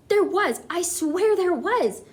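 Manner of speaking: high, loud, insistent protest; shouting back. A narrator's reading. Cook shouting back at the others, indignant. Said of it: "the man was shouting back".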